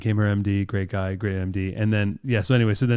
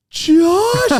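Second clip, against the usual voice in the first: shrieked name, much higher and louder; starstruck shriek; 6 dB louder than usual. Retold or imitated. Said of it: "You know".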